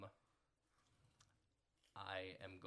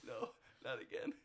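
raised, breaking into a loud plea; distressed denial, growing louder; distraught; 7 semitones higher, 8 dB louder, faster than usual. Acted. Player realising her dog is hurt, distraught protest.

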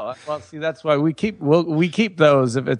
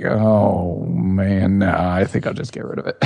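weary shrug; 6 semitones lower than usual. Retold or imitated. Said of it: "I just start to think".

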